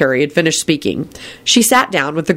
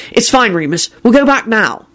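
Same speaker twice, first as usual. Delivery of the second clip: reassuring; 6 semitones higher than usual. A narrator's reading. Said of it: "Harry said reassuringly".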